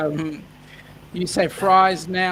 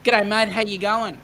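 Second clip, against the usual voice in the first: higher, played-up Australian g'day; Australian greeting; 4 semitones higher, 4 dB louder than usual. Shown as a demonstration. Host showing Sheena how to greet the store, played-up Australian. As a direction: call out a hearty Aussie greeting. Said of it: "you walk into the store and you go".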